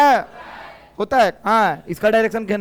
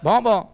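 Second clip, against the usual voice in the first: dog bark imitation. Shown as a demonstration. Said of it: "करके दिखाएं?".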